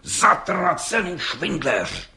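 drawn-out, slow furious swearing; slow curse. A narrator's reading. Judge cursing the departing brickmaker slowly. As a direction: spit each word out slowly.

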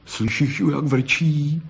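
put-on mildly gleeful boy; a touch of delighted teasing. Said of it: "zajásal Pepík".

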